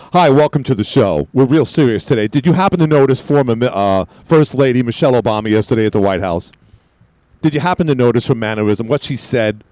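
mock-serious radio host opening; the host's voice. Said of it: "I just slipped into my Mark Simone voice. Joe Pagg's voice".

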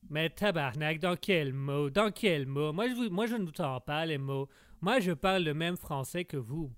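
put-on annoyed Québécois accent. Québécois guest challenges the teasing host, annoyed Québécois accent. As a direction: push back in a broad Québécois accent. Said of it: "ça s'entend un petit peu".

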